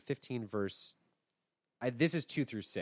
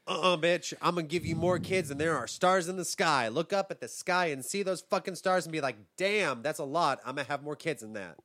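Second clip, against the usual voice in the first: very aggressive; 2 semitones higher than usual. Acted. God promising Abram more kids, mock aggressive. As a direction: play God telling someone off. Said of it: "I made God very aggressive for that".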